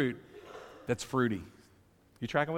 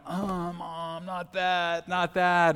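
a hint of whiny kids, higher and rising to loud; pleading kids; 5 semitones higher, 3 dB louder, much slower than usual. Kids pleading with mom at the checkout, whiny and rising. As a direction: beg like a child losing a treat.

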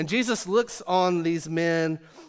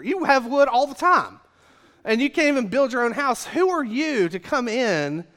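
high, loud, indignant ranting; angry Pharisees; 4 semitones higher, 3 dB louder than usual. Acted. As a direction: rant at Jesus like an outraged Pharisee. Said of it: "they get mad".

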